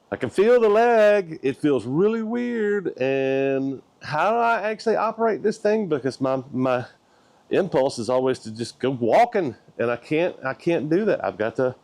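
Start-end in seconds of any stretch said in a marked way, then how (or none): 0.1-5.9 imitated stroke victim. Amputee likening himself to a stroke victim, high put-on voice. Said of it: "I almost feel like a stroke victim".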